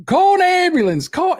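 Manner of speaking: high, loud mocking cry for an ambulance; mock whiny victim. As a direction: ham up a man begging for help. Mocking the man lying down.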